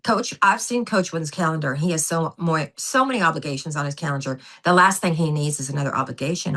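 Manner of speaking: light Southern accent, lightly voiced husband. Wife lightly imitating her husband's Southern accent as he declines the dinner invite. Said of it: "I have to do the Southern accent".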